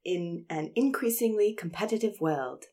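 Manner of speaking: put-on slow reading drifting into a British accent; accidental British accent. Reluctant actor reading the boss's email aloud, accent slipping British. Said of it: "It's gone British again".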